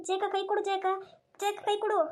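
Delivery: high, urgent plea to a drowning friend; urgent rescue call. Acted. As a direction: call out anxiously, pitched high.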